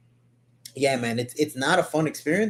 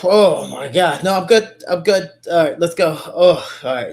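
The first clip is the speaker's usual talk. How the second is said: dazed after a choke; 2 semitones higher, 5 dB louder than usual. Retold or imitated. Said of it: "so you're just like".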